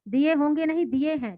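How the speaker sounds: a touch of a stern landlord, mildly sharp; mild stern rebuke. Acted. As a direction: correct her firmly but lightly. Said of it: "कड़े स्वर में".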